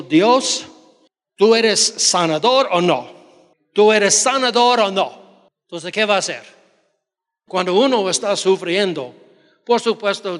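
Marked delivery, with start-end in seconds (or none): 0.0-5.5 retold challenge to God. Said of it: "yo hablé con Dios, diciendo".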